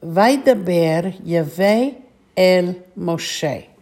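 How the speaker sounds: slow, measured model reading of the phrase; deliberate recitation for repeating; slow whole phrase. Shown as a demonstration. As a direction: read it slowly, word by word, for learners. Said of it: "this part of the phrase all together".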